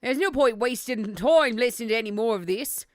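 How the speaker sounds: game juror in an attempted British accent; British accent pushed forward in the mouth; forward-placed accent. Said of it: "push it more forward in my mouth".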